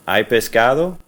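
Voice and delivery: "Hay pescado?" rising up on "pescado"; question intonation. Shown as a demonstration. Teacher showing students the rising question tune. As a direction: lift the end of "pescado" into a question. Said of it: "change your voice inflection to make it sound like a question".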